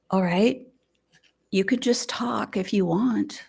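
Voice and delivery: whispered gentle reassurance. Retold or imitated. Grandmother coaxing her silent granddaughter, a gentle whisper. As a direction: hush it, barely a breath.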